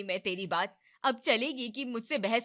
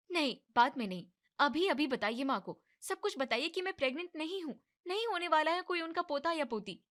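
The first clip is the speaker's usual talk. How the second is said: angry demand; 8 semitones higher than usual. Acted. Wife insists on telling truth.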